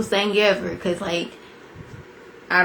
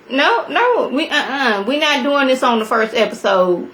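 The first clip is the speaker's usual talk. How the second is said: laughing protest; 4 semitones higher than usual. Retold or imitated. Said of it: "I'm like".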